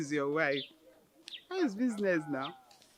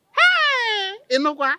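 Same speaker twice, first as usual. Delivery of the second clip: joyful shout; 13 semitones higher, 11 dB louder, much slower than usual. Acted. Rejoicing alone after the call.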